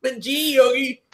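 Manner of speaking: high-pitched little cartoon bear; Boo Boo. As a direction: answer as the high-voiced sidekick bear. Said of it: "I always did this".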